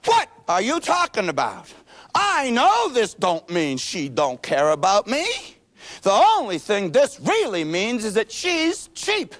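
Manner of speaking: put-on calm kid. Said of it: "my buddy ... says".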